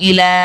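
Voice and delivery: "ইলা" with "লা" held long; recited "ইলা", stretched ending; one-alif elongation. Shown as a demonstration. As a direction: draw out the final vowel of "ইলা". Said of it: "এক আলিফ পরিমাণ টান হবে".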